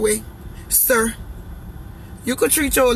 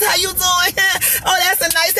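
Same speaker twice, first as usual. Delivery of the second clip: mock flirty greeting; 5 semitones higher than usual. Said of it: "I don't need to be all in Eric face".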